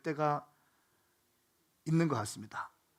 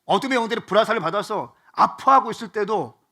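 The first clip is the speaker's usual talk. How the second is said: raised, loud preacher's cry of comfort; fervent preaching; 5 semitones higher, 7 dB louder than usual. Acted. Pastor to congregation in slump, loud fervent preaching. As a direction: preach it out to the whole hall, fired up.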